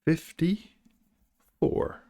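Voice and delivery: very slow, stretched number call; bingo caller. Pretend. Echoing drawn number bingo-style.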